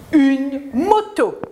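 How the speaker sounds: "Une moto" read slowly, each syllable clear; slow model reading. Shown as a demonstration. Teacher to pupils, reading the word slowly to model it.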